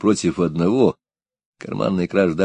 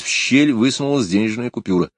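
ordinary delivery

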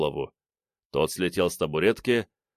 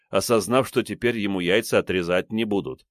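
usual speaking voice

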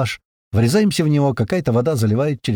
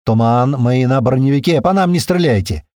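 loud urgent call; loud warning call; urgent radio shout; 5 dB louder than usual. Acted. Radio call under fire.

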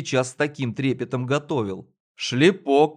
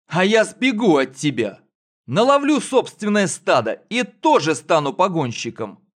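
put-on defiant boy; 5 semitones higher, 3 dB louder than usual. Boy boasts back.

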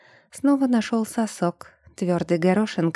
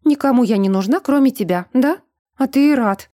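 raised, higher angry outburst; flaring up; 4 semitones higher, 5 dB louder than usual. A narrator's reading. Эльза flares up at Брун in the kitchen, angry and raised. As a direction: flare up, voice climbing. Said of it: "вспылила она".

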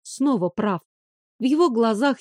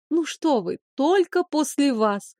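sneering fake sweet; 4 semitones higher than usual. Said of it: "хмыкнула язвительно".

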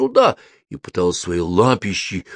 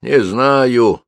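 slow grumbling reply; grumpy; 4 semitones higher, 6 dB louder than usual. A narrator's reading. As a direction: grumble it, annoyed. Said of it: "сварливо отозвался Кальцифер".

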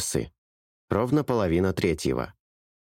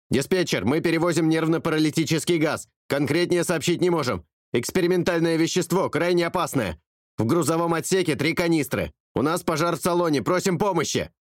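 higher pilot through static; distorted radio voice; 8 semitones higher than usual. A narrator's reading. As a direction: speak through crackling radio. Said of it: "искажённый помехами". (голос пилота, искажённый помехами)

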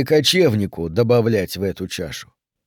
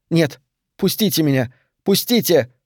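high desperate cry, higher; protesting cry; 4 semitones higher than usual. A narrator's reading. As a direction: cry out to be let go. Ariel pushes away, protesting.

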